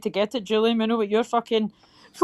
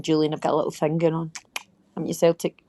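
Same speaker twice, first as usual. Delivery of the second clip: whisper; 4 semitones lower, faster than usual. Real, not acted. Teasing secret aside.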